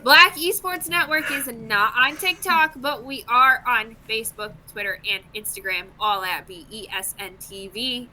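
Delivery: scripted promo read; announcer sign-off. Real, not acted. Host telling viewers where to follow the network, announcer read. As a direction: read it out as the show's outro plug.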